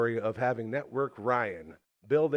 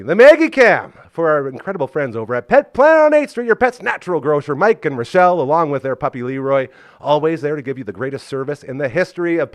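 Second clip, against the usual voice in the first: loud, hyped sponsor shout-out; ad read; 4 semitones higher, 13 dB louder than usual. Acted. Host reads the pet store ad loudly. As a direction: pitch the pet store with gusto.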